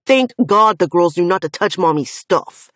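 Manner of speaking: loud, relentless, bitter account; angry recollection. Acted. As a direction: hammer each memory home. Finn recounts trauma furiously.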